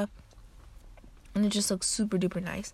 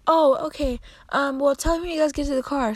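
lightly voiced grandma; 7 semitones higher, 4 dB louder than usual. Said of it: "And she's like".

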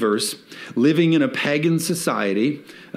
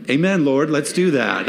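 mock eager amen; 3 semitones higher than usual. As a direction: cheer it like a fired-up churchgoer. Mock eager churchgoer response.

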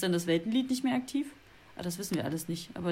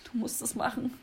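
brüchige Bitte; 5 semitones higher, 5 dB quieter than usual. Acted. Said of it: "aber meine Stimme bricht ab".

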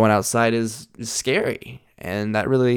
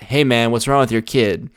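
blunt; 5 dB louder than usual. Shown as a demonstration.

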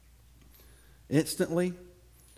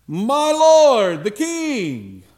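high, loud call after the king; yelling; 8 semitones higher, 11 dB louder, much slower than usual. A narrator's reading. David calls out to the departing King Saul, loud shout. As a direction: shout across the distance to the king. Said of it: "David runs out of the cave and he yells".

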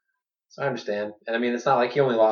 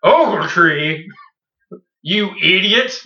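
mock insult; 7 semitones higher, 8 dB louder, much slower than usual. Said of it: "look over his team and be like".

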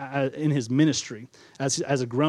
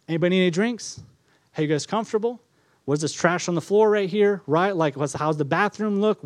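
fussy host; 2 semitones higher than usual. Acted. Frantic host before guests.

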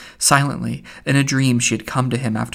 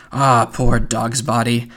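kind; 3 dB louder, slower than usual. Acted. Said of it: "he said in a kind voice".

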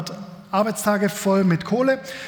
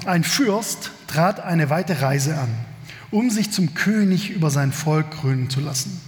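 calm, measured reading of a Bible passage; scripture reading; slower than usual. Acted. Pastor reading the parable to his congregation, measured reading voice. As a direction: read the passage to the congregation, unhurried.

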